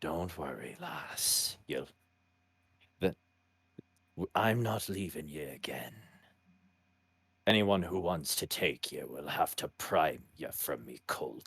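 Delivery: low, hushed mutter, almost breathless at the end; quiet muttering. Acted. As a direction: mutter it under your breath, protective and low. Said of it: "quietly is muttering".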